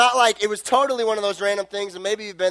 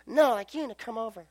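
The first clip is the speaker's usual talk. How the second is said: put-on insistent girlfriend; 3 semitones higher, 7 dB quieter than usual.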